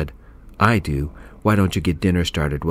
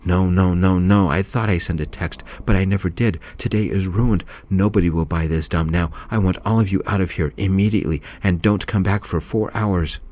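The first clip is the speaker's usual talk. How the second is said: yelling. Acted. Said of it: "Missus Gaines checked her phone and yelled".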